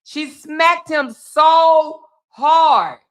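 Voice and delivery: amazed. Real, not acted. Host marvels at the smack.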